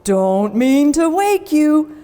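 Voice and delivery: slow, chuckling principal voice; amused and drawn out; chortling principal. Acted. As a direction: principal chuckling at lazy class. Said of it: "say with a chortle".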